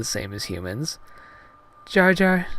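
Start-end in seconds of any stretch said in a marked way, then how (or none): 1.9-2.5 high falsetto heroine; Padme, tentative. Acted. Heroine about to ask serious question, high falsetto. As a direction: call his name in put-on falsetto. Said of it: "she talked a little lower".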